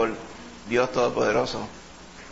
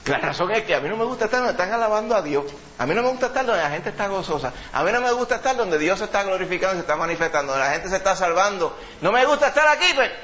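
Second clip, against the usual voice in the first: a lightly voiced sulky complainer, higher; mock grumbler; 4 semitones higher than usual. Preacher voicing a churchgoer who dislikes praise, mock complaint. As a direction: whine it like someone who hates worship. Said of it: "no te va a decir nunca por qué".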